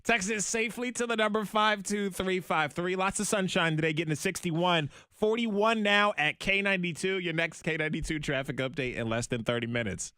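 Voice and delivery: easy, even traffic update delivery; casual on-air announcer patter; radio traffic read. Real, not acted. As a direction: read the roads and weather to listeners.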